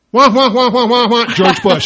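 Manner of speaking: high, loud mock whine; hammed-up whining wah wah at top volume; Air America whining. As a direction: whine like a nagging talk host, then spit out the name. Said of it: "this is my impersonation of Air America".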